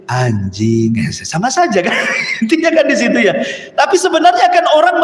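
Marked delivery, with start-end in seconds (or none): 0.1-0.9 low, drawn-out word; slow, low growled-at-you demo; stern tone. Shown as a demonstration. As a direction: drop low and stretch it out. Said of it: "yang satu mungkin jangan-jangan bentak".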